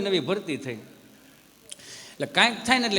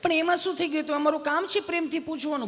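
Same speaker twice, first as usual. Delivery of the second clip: much higher, kindly nurse; sweet nurse voice; 9 semitones higher than usual. Retold or imitated. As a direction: reassure him like a gentle nurse. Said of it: "તમે કેટલું પ્રેમથી પૂછો છો બેન".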